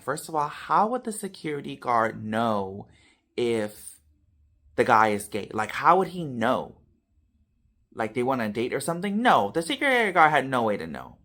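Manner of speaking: imitated furious mom. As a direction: act out an outraged mother's challenge. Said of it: "my mom was beyond belief furious".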